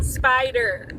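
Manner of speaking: spider said Aussie, r dropped; the local Aussie way to say spider; Australian accent. Shown as a demonstration. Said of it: "Now in English".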